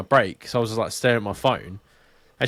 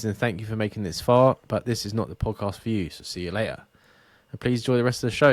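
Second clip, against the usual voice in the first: disclaimer read. Acted. Reads podcast disclaimer.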